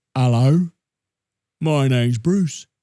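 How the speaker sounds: deep, low cartoon shark voice. Repeating an impression from an animated movie, the speaker does Bruce from Finding Nemo. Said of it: "What character in the film was that?".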